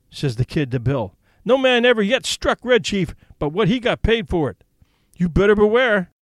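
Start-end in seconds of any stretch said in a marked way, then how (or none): 1.4-6.1 lightly voiced boy chief, higher, menacing; a little brat issuing a warning; threatening kid.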